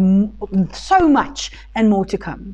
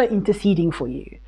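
hushed, breathy whisper; whispered awe; 3 semitones lower, 6 dB quieter than usual. Real, not acted. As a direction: whisper it like a secret. Whispered emphasis in sermon.

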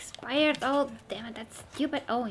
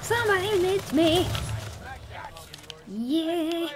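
higher, louder cry of frustration; oh, oh, you stupid, yelled; frustrated yell; 7 semitones higher, 4 dB louder than usual. Real, not acted. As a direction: shout at the game in annoyance. Killed in game, yelling.

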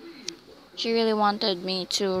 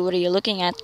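stern voice; 3 semitones lower, faster than usual. Acted. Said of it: "questioned Levi in a stern voice".

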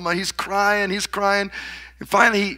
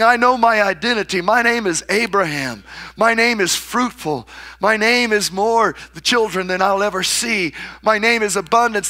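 firm proclamation; 3 semitones higher than usual. Retold or imitated. Abraham answering the mockers.

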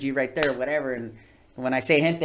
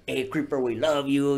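sweet fan greeting. Retold or imitated. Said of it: "he wasn't talking like that".

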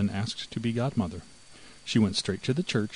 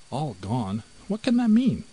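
rising alarm, ending in a high loud cry; alarmed mouse; 3 semitones higher, 5 dB louder than usual. A narrator's reading. The mouse, suspicious of the cat, cries out high and loud.

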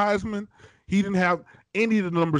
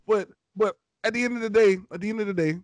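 too close to mic. Real, not acted. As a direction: voice distorting on the mic. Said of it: "I'm clipping y'all".

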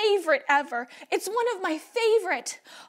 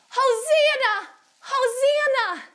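mild drawn-out cheer, a bit higher; crowd shouting; 5 semitones higher, 3 dB louder, slower than usual. Acted. Crowd waving palms for Jesus, mild acted shout. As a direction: stretch it into a slow, high shout of praise. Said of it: "and they were shouting".

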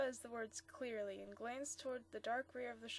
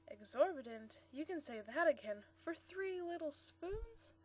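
good-humoured disbelief; 5 semitones higher than usual. Acted. Bob scoffing at the dealer's price, amused disbelief.

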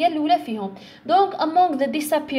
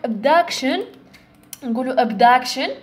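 abduction с ударением на втором слоге, duc тянуть дольше; протянуть abduction на слоге duc; stress on second syllable; slower than usual. Shown as a demonstration. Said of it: "the stress راهو في السكند syllable".

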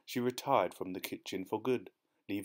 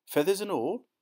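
high, louder astonished question; 10 semitones higher, 6 dB louder than usual. A narrator's reading. Boy asking his aunt, horrified. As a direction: squeak it out in horror.

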